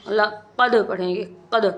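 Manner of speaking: لقد with a bouncing echo on the final d; echoing qalqala. Shown as a demonstration. Teacher showing students qalqala on laqad, echoing final d in لقد. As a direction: let the d of لقد rebound like a returning echo. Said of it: "جیسے آواز ہماری لوٹتی ہوئی".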